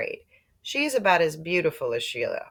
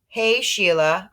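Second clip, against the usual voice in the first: loud, slow call-out to claim the rocks; challenging call; 4 semitones higher, 5 dB louder, slower than usual. Acted. Peter confronting Sheila on their rocks, loud slow call. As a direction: call her out, drawn out and firm.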